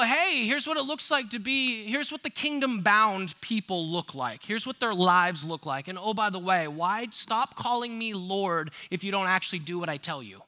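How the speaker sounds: mock Jesus voice. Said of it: "You're gonna go".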